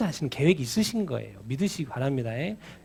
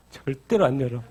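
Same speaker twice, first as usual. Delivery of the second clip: laughing; 3 semitones lower than usual. Real, not acted. Laughing at unopened Bibles.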